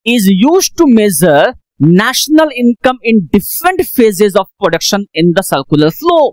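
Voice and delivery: slow, word by word dictation. Shown as a demonstration. Teacher dictating to class, slow and deliberate. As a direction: dictate each word for notes. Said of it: "dictating the definition slowly".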